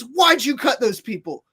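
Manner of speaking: mock-yell it at the guy who cut the line; imitating a clerk starting to shout; retold yelling. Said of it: "starts yelling at me".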